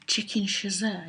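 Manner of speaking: chasseur said as "shuh-ZUR"; "chasseur" with stress on the last syllable, r dropped; unsure French pronunciation. Real, not acted. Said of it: "Is that how you say it?".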